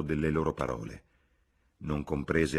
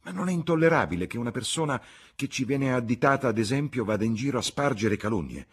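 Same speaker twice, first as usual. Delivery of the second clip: higher, louder, heated protest; indignant young Lucy; 6 semitones higher, 5 dB louder than usual. A narrator's reading. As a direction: protest at the slander.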